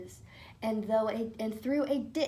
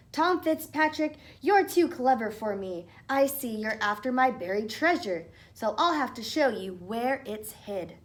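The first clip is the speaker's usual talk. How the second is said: sly little man; 2 semitones higher, 5 dB louder than usual. Acted. Leprechaun gives in.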